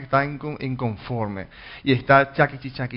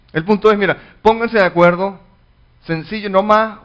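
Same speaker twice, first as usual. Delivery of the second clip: higher, louder pulpit push on the point; fervent preaching; 6 semitones higher, 7 dB louder than usual. Acted. Pastor urging the church to agree, fervent preaching. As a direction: preach it out like the crux of the sermon.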